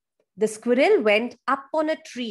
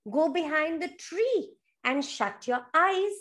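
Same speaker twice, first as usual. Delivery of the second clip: higher eager chorus voice; animal friends answering; 3 semitones higher than usual. Acted. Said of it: "And everybody says".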